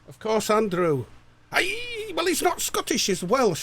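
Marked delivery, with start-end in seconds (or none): 1.5-3.1 very high, jokey squeak; squeaky high voice. Pretend. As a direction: jump way up into a squeak. Jokey squeak about accent.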